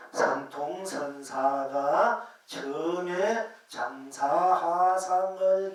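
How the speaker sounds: slow, loud, sing-song chant of the koan; drawn-out chanting recitation of a Zen dialogue; solemn scripture reading. Shown as a demonstration. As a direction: intone the old text slowly, like a monk at the altar. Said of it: "다시 한번 읽어드릴게요".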